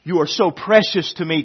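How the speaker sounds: put-on God begging his children to listen, loud; God pleading. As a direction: plead with open arms. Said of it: "God says".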